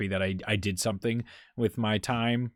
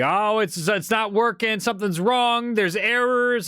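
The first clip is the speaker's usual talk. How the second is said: higher, mock-panicked old folks about the phone; panicky grandparents; 10 semitones higher, slower than usual. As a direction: play flustered elderly grandparents, pitched up. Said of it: "they're screaming at each other".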